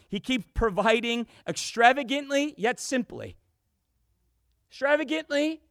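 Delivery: animated pulpit storytelling; fired-up preaching. Acted. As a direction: preach it with rising wonder, punching key words. Preaches on the miracle.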